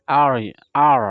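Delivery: R dilafalkan ala Inggris, lidah melengkung. Shown as a demonstration. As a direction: contohkan R Inggris. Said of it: "R dalam bahasa Inggris". (R bahasa Inggris yang halus)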